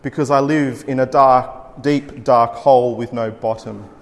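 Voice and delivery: measured, heavy recital of a lament poem; poem reading. Acted. Speaker reading a depression poem to the audience, grave poem recital.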